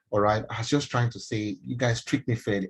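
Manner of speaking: measured, conciliatory reenactment; calmed down. Retold or imitated. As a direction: make the case calmly. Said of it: "So I calmed down".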